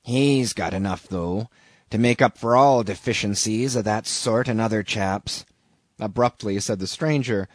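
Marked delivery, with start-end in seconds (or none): 0.0-5.5 "He's" leaned on at the start; nervous emphasis on HE. A narrator's reading. Stranger singling out the other man, nervous emphasis on "He's". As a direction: lightly stress "He's", drawing it out a little. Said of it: "placing a nervous emphasis upon the word he".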